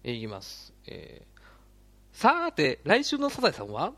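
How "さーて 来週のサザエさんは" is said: high, bright preview announcer, louder; Sazae-san preview voice. Shown as a demonstration. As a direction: sing out the next-episode teaser. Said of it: "サザエさんの次回予告っぽく".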